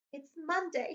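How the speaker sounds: Dudley. Acted. Dudley voiced in story.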